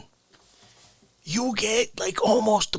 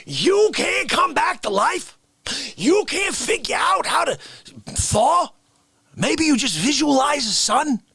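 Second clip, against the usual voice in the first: higher, mock indignant scolding; 5 semitones higher than usual. Character scolding cohost for not thawing, mock indignant. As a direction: scold him with hammed-up disbelief. How Dare You Guy outrage.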